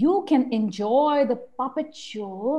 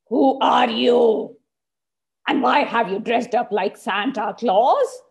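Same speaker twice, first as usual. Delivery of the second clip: angry; 3 dB louder than usual. Acted. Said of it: "got really angry".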